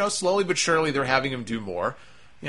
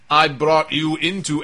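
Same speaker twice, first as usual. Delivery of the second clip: put-on Rusev accent; 3 semitones higher, 4 dB louder than usual. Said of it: "why am I doing the Rusev accent".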